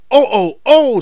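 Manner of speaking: high, loud wailing groans; silly trucks grumbling loudly; complaining trucks. A narrator's reading. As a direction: trucks protesting as they're shunted. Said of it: "said the trucks".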